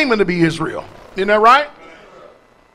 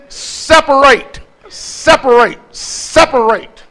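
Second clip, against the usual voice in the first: louder, higher, slow Separate; loud repeated call; 4 semitones higher, 4 dB louder, slower than usual. Acted. Preacher urging everybody listening, loud repeated Separate.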